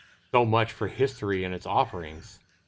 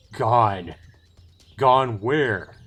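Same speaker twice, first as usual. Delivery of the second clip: alarmed demand; 6 dB louder, much slower than usual. Acted. Elf reacting to lost marrow.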